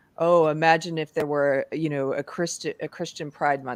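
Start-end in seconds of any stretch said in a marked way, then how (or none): none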